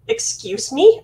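sharp, high, loud offended question; the princess bristling at being called drunk; indignant excuse me. Acted. Princess bristles at stranger's insult, indignant high cry.

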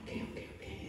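soft whispered okay, okay, okay. Retold or imitated. To God's rebuke, a whispered giving in. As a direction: give in with a whisper.

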